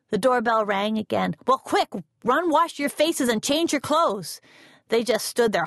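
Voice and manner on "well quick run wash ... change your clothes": a hint of a harried mom, a bit higher; hurried mother. A narrator's reading. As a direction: rush the kids along lightly. Mama hurrying the kids.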